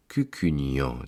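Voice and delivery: Cucugnan sighed out low on one long breath. Acted. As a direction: let Cucugnan fall away on a sigh. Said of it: "dit-il en poussant un long soupir".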